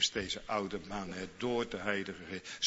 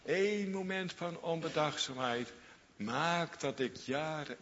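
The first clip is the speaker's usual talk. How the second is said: lightly voiced David, high and rueful; a touch of a grieving king regretting his moment; David mourning his mistake, voiced higher; lamenting David; 5 semitones higher than usual.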